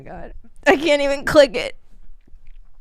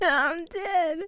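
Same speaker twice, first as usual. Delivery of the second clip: laughing; 5 semitones higher, 4 dB quieter than usual. Real, not acted. Spent from laughing.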